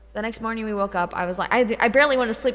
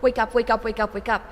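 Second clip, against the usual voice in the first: rapid-fire repeated urging, louder; insistent retold pleading, words tumbling; frantic wake-up; 2 semitones higher, 4 dB louder than usual. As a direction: act out shaking someone awake. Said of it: "I was, like, violently".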